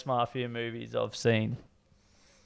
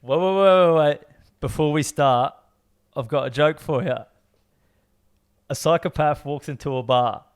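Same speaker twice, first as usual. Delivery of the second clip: put-on London gangster accent, urgent then measured; put-on British gangster accent. Player giving the next movie line as a clue, London gangster accent. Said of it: "I need to put on an accent".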